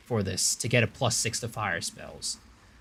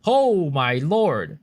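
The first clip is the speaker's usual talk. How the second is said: surprised; 8 semitones higher, 5 dB louder than usual. Real, not acted. Caught in chaos cloud, health dropping.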